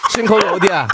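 지금 거기 어디야 said like hunting someone down; 지금 거기 어디야 as a menacing question, wrong order; wrong word order, like chasing someone. Shown as a demonstration. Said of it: "이거는 약간 누구 잡으러 가는 것 같고요".

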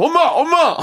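high-pitched excited cry for mom; hammed-up frantic fuss. Host acting out a Billboard winner telling mom, frantic fuss. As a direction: call out in mock hysterical delight. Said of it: "막 호들갑 떨고 막 난리 나서".

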